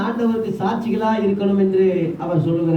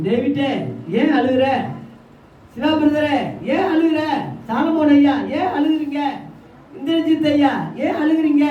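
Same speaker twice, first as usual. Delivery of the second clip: high-pitched appeal to each person in turn; calling by name; 5 semitones higher than usual. Acted. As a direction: call each name, then ask, pitched up. Voices Jesus asking congregants by name.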